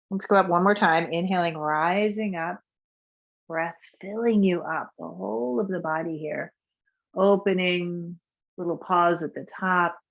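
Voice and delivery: calm, unhurried guiding voice for a breath practice; guided meditation. Acted. Teacher guiding a class through breath practice, soothing. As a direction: lead the breathing gently and evenly.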